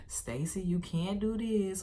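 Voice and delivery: mock coddling, drawn-out plea; little sweet voice. Imagined parent soothing Stacy at sports, sweet little voice. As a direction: imitate a parent babying a kid. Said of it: "no little sweet little voice".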